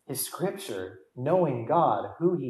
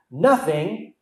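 "Nothing" stressed on its first syllable; strong emphasis on Nothing; 3 semitones higher than usual. Shown as a demonstration. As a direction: land hard on "Nothing", then pause. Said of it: "there is a strong emphasis over the word nothing".

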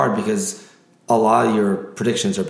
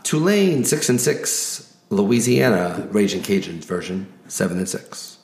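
announcer voice. Acted. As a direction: hype each matchup like a ring announcer. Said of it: "I get to get my announcer voice on".

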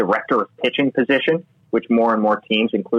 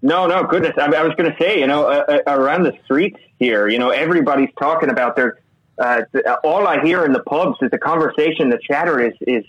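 higher-pitched, badly faked Irish accent; put-on Irish accent; 4 semitones higher than usual. Co-host reporting pub chatter from Ireland, hammed-up Irish accent. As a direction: play up a mock Irish lilt. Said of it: "I think I'm gonna drop the accent".

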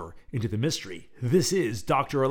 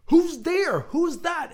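high, louder muffled shout; a smaller first try at the yell; first take yell; 7 dB louder, slower than usual. A narrator's reading. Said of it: "So I should have said".

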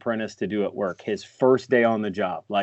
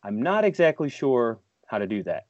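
quoting Ref's hedge. Retold or imitated. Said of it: "like I always say to Ref".

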